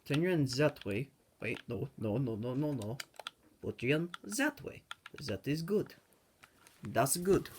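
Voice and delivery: slight German accent creeping in; slipping into German. Real, not acted. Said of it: "I'm going into German again".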